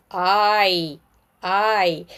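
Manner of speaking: "I" as the drawn-out name of the letter; long I. Shown as a demonstration. Teacher names the letter for learners, long I. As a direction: say "I" long, like "eye". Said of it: "we have short I and long I".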